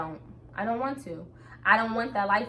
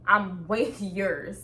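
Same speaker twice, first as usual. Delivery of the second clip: laughing; much slower than usual. Real, not acted. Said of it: "I don't even know what accent that is".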